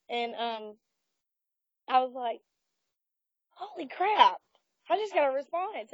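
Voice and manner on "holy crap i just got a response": high-pitched retold astonishment; mock startled excitement. Retelling hearing the spirit answer, mildly astonished. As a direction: replay your amazed reaction in a raised pitch. Acts out his startled reaction.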